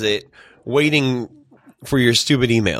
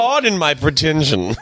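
slow, drawn-out mock politeness; jokey affected apology; mock pretentious; 2 semitones higher, slower than usual. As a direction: stretch it out with playful pomposity. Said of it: "why are you so pretentious".

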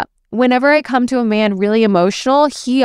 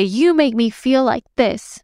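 higher, accusing, slower take; blaming tone; 3 semitones higher, slower than usual. Shown as a demonstration. Coach showing the blaming way to say it, accusing. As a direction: point the finger with the voice. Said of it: "Notice that I didn't say".

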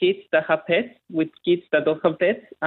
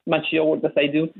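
Chilean accent. Real, not acted. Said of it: "he has a delightfully thick Chilean accent".

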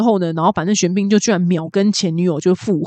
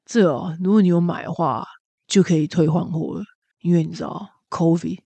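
a hint of a jaded clerk, soft and low; world-weary clerk; 4 semitones lower, 3 dB quieter than usual. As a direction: mumble it, eyes on the floor. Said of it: "非常的厌世".

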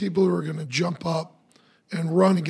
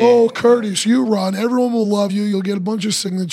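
coaxing flatterer; 4 dB louder than usual. Retold or imitated. Voicing flatterers coaxing Curtis.

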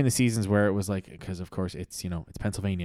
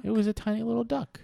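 excited reveal; 11 semitones higher than usual. Acted. Big reveal, high voice.

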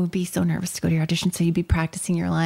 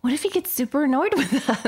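laughing whisper; 6 semitones higher than usual. Real, not acted. Laughing while talking.

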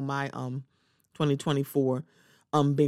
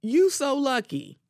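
teasing imitation; 7 semitones higher, slower than usual. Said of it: "It's like".

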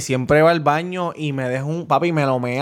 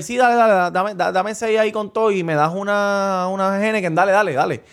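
lightly imitated drunk, stumbling over the order; mock a tipsy regular fumbling his order; a hint of slurry bar customer; 3 semitones higher than usual. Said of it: "está bien encasquillado y borracho".

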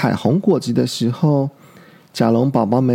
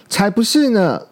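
angry; 6 semitones higher than usual. Acted. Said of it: "很生气地说".

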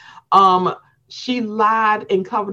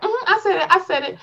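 mock smug admission; 11 semitones higher, faster than usual. Voicing the housewife owning it.

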